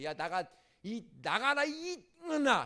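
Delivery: loud, high mock yell; parent yelling. Parent throwing a child out, loud high mock yell. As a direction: shout them out of the house. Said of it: "부모님이 여러분들을 혼내킬 때".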